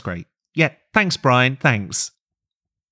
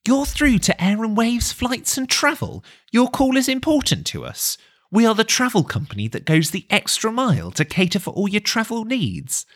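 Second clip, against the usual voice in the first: phone menu voice; 5 semitones higher than usual. Acted. Automated phone queue message.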